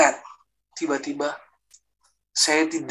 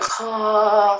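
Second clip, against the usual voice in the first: higher, drawn-out "ha" cry; imitated scream; 6 semitones higher than usual. Man retelling how he screamed in church, imitated scream. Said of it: "Saya teriak".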